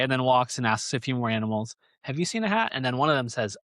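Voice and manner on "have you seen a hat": bear voice. Retold or imitated. Bear asking animals.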